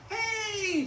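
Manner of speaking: high, drawn-out cartoon shout; loud, squealed call for attention; screaming. A narrator's reading. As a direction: holler it high to stop everyone. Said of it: "Forky screamed".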